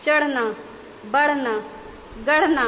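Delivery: flapped ढ़ in चढ़ना, बढ़ना, गढ़ना; nukta flap words. Shown as a demonstration. Teacher reading nukta examples, ढ़ flapped in each. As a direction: separate words, each ढ़ flicked. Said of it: "तो अब ये पढ़ना ड़ हो गया".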